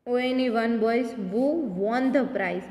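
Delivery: very slow, word by word; slow reading. Shown as a demonstration. Teacher reads fill-in sentence to pupils, very slow. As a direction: spell the sentence out slowly for the class. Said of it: "teacher reads answer".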